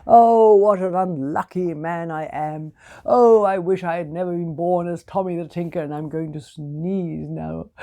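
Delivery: lightly voiced moaning tinker; a hint of a self-pitying moan; moaning Tommy. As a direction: groan it out, sorry for himself. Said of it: "he moaned and groaned".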